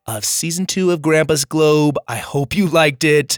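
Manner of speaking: losing voice, hoarse and strained. Real, not acted. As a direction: push through a hoarse, worn-out voice. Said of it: "I've been losing my voice this week".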